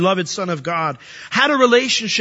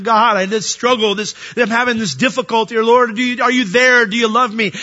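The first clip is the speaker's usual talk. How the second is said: louder, higher anxious plea; crying out to God; 4 semitones higher, 4 dB louder than usual. Retold or imitated. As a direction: call up to God in distress. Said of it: "when we cry out to him".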